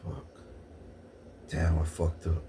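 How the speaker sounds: low, soft dismay; a touch of a defeated clerk; mock dismay. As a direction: mutter it, caught out. Clerk caught out, retold.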